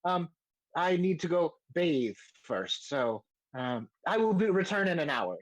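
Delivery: a hint of a flustered gentleman; Rainier, apologetic gentleman. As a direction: make polite, hesitant excuses in character. GM voices Rainier.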